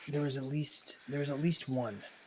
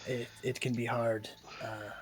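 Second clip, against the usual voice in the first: sly flattering; 4 dB quieter than usual. Acted. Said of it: "Mimo says".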